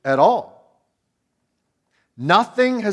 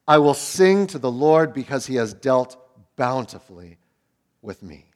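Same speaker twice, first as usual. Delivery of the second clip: calm trust; 3 semitones lower than usual. Acted. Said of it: "That's a total one eighty that you just saw".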